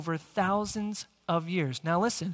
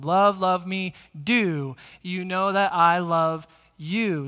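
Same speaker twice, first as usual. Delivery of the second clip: louder, leaning on the end of the line; stress the end words; 6 dB louder, slower than usual. Shown as a demonstration. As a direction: punch "love" and "you" at the end of each line. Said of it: "the words at the end are the predominant words".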